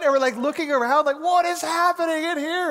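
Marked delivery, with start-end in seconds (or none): 1.2-2.7 bewildered. Retold or imitated. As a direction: shout your confusion over the din. Looking around at deafening music.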